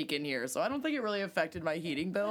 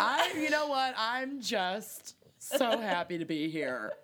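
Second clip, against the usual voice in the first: mock cheery; 3 semitones higher than usual.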